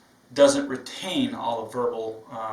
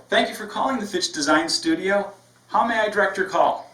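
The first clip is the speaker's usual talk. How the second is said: higher, louder cheerful phone greeting; upbeat and positive; 5 semitones higher, 3 dB louder than usual. Shown as a demonstration. Trainer models the upbeat receptionist for new staff. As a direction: greet the caller with energy. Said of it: "I'm upbeat, I'm positive".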